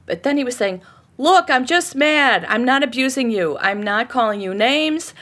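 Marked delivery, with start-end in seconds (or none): 1.2-5.1 emphatic, mildly raised mock yell; half-strength retold shouting; imitated shouting. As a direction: insist it like an exasperated husband. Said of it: "to shout about the thing".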